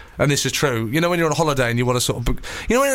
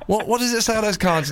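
put-on imagined suspicious boyfriend; 7 semitones higher than usual. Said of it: "I imagine he answered the door".

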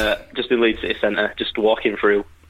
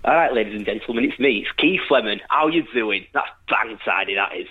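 put-on lightly done Keith Lemon, Leeds accent; a hint of Keith Lemon; Keith Lemon impression. Caller doing Keith Lemon on the radio, lightly voiced. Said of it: "express my Keith Lemon impression".

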